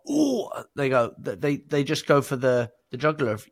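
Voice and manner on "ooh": acted surprise. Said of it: "switch into actor mode".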